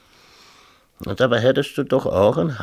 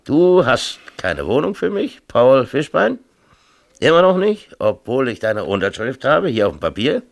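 higher, louder accusing tirade; mayor berating the man who holds his signature, higher and louder; bitter reproach; 6 semitones higher, 5 dB louder than usual. Acted. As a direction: throw the broken promise back at him. Mayor's outburst at teacher.

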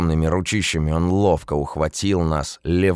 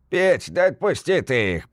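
asking; 11 semitones higher than usual. A narrator's reading. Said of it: "попросил Кузьмич".

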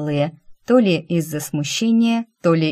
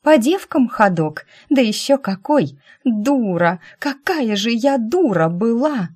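fake wailing; 6 semitones higher than usual. A narrator's reading. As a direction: wail as if heartbroken, putting it on. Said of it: "изображая ручьи слёз".

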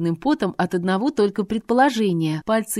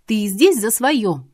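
wailing; 3 semitones higher, 4 dB louder than usual. Acted. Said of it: "взвыла я".

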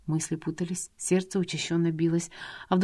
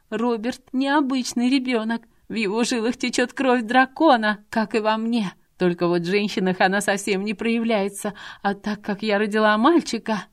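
a madwoman revealing her secret; a deranged governess boasting of dragon blood; eerie fanatic; 4 semitones higher, 4 dB louder than usual. Acted. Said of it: "голос сейчас был таким пугающим".

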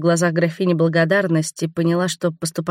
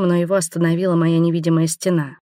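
usual speaking voice

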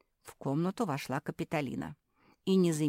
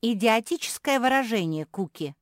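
loud, hurt outburst, lightly acted; mock sobbing; 6 semitones higher, 9 dB louder than usual. A narrator's reading. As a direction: accuse loudly with a touch of tears. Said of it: "всхлипнула мопсишка".

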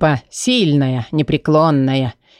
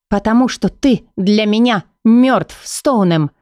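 higher woman's voice, holding back tears; Leila, syllable by syllable; 6 semitones higher than usual. Acted. Лейла отталкивает бывшего возлюбленного, сдерживая слёзы, по слогам. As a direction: spell it out coldly, fighting tears. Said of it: "по слогам произносит Лейла, всеми силами стараясь сдержать слёзы".

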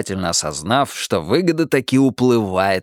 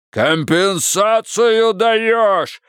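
bawling demand; 10 semitones higher, much slower than usual. A narrator's reading. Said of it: "загорлопанил".

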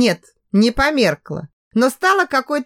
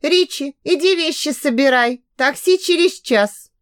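higher, calling across the flat; mom calling out; 5 semitones higher than usual. Acted. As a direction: call the son from another room. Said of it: "мама крикнула". (мама зовёт сына из другой комнаты, громко)

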